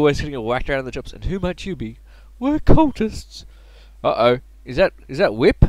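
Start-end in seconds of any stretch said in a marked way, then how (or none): 2.4-3.4 drawn-out, loud, much higher cultist boast; menacing cultist. Acted. Cult boss announcing himself to the kid, loud and slow. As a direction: boom out the name of your cult, slowly.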